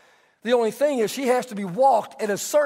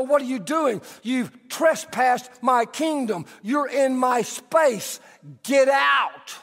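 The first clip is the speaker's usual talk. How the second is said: indignant get out; slower than usual. Retold or imitated. Pastor acting out a man guarding his space, mock indignant. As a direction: bristle at the trespasser, half in fun. Someone invading your space.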